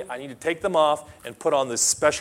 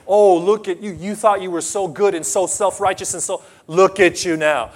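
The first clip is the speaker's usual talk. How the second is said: mock taunt; 3 semitones higher, 4 dB louder than usual. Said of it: "they're making fun of him".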